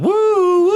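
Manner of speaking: shrill hot-sauce hoots; high woo from the heat. Real, not acted. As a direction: whoop at the burn. Reacting to spicy wing.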